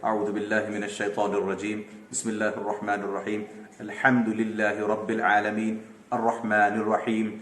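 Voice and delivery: gentle Arabic recitation following tajweed; careful tajweed recitation. Retold or imitated. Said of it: "ये इस तरीके से पढ़ता है".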